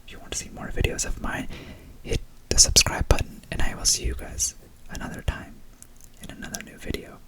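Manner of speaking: hushed ASMR whisper. Real, not acted. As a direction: whisper close to the mic, gently.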